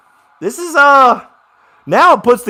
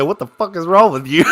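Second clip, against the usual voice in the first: laughing quote. Retold or imitated. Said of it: "you hear Brian Kelly say".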